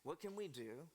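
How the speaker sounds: worried advisors. Acted. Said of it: "they're like".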